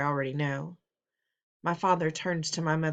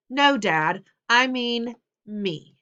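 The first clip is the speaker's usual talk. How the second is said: loud retort; 5 semitones higher, 7 dB louder, much slower than usual. Acted. Son retorts to father.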